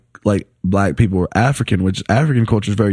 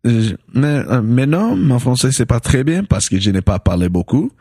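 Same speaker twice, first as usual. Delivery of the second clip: French with an African accent. Real, not acted. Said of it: "you speak like every African speaking French".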